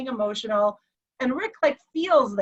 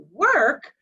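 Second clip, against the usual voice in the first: higher-pitched blank bafflement; baffled echo; 4 semitones higher, 4 dB louder than usual. Retold or imitated. Confused husband asked about work, baffled echo. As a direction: echo it as a foreign word. Husband does not know the word.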